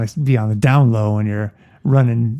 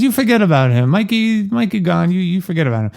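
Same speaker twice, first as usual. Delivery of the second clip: put-on slightly higher heavy Italian accent; 4 semitones higher than usual. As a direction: play an old Italian mother, Italian accent. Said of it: "Very heavy Italian accent".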